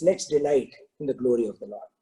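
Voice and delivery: low, unruffled minister's line; calm. Acted. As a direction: stay serene despite the king's fury. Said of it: "still is calm and he says".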